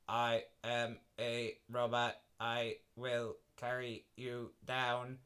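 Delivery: slow lightly robotic voice. Acted. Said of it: "the robot said".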